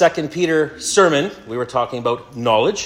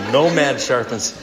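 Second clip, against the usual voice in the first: slow, leaning hard on no; mock emphasis; slower than usual. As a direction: repeat the misread line slowly, stressing no. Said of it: "Reading from the reviled substandard perversion".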